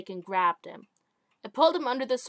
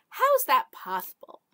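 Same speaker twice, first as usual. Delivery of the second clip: alien captain voice; 4 semitones higher, 5 dB louder than usual. Acted.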